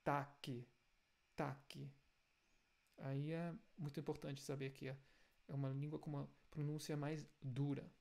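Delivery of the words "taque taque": "taque" with an added final i, like "taki"; wrong extra vowel. Shown as a demonstration. Teacher mocks the Brazilian "taque" instead of Tag. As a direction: say "taque" with a trailing i. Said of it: "não é".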